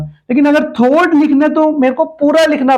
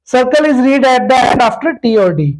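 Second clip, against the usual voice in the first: slow dictation; 2 semitones higher, much slower than usual. Shown as a demonstration. Reading the rule out slowly.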